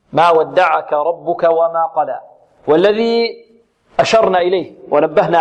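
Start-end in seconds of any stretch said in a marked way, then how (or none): 0.1-2.2 قلى with a light lam and open alif; Quran recitation. Shown as a demonstration. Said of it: "واللام هنا مرققة". (تلاوة قلى بلام مرققة)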